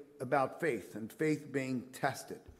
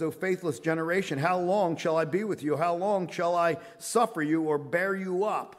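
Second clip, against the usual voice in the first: a frustrated rebuke, a little louder; exasperated Jesus rebuking his disciples; 2 semitones higher, 5 dB louder than usual. Retold or imitated. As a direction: scold them in weary frustration. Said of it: "You could sense the frustration in the voice of Jesus".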